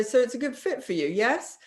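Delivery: brisk, bright sales check; fast, cheerful yes-fishing; upbeat closing questions. Shown as a demonstration. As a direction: push them toward a quick yes. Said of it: "you say".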